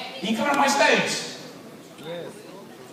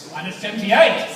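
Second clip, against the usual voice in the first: mock astonishment. Presenter echoing the figure to wow the kids, mock amazed. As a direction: feign disbelief at the number.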